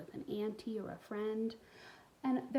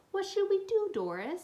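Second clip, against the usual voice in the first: put-on excited boy; 11 semitones higher, 6 dB louder than usual. Boys taunting over doll.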